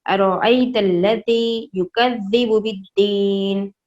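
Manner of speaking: slow, measured verse recital; final recitation. Shown as a demonstration. Teacher giving children the finished verse, slow recital. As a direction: recite the whole verse slowly. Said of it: "final इस आयत का इस तरह से पढ़ा जाएगा".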